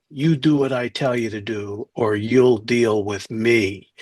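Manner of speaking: slow, measured mock threat; a hint of a movie fixer laying down the law; menacing spin doctor. Spin doctor calling up the Supreme Court, mock menace.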